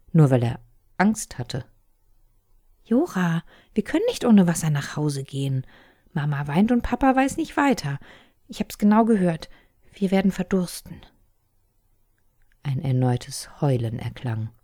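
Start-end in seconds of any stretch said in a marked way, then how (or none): 2.8-11.0 put-on high, urgent girl's voice begging him to stay; pleading little sister. A narrator's reading. Little sister pleads with her brother not to go home without water, urgent and high. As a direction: make him see the danger.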